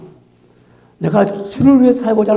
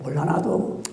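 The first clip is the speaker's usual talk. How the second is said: low, much softer sighing reply; resigned brush-off; 4 semitones lower, 12 dB quieter than usual. Acted. Churchgoer challenged about faith, acted resigned mumble. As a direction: give up quietly, as if not caring.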